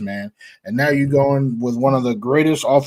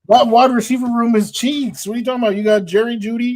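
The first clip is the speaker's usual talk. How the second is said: heated; 8 semitones higher than usual. Real, not acted. Arguing receivers, raised voice.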